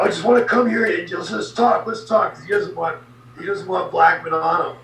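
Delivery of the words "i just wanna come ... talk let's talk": higher, eager let's-talk plea; smooth it over, pitched up; placating Bradshaw. Retold or imitated. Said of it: "He says".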